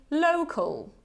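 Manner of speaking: local, final syllable a light schwa-l; model word local. Shown as a demonstration. Teacher has students repeat local. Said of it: "Repeat after me".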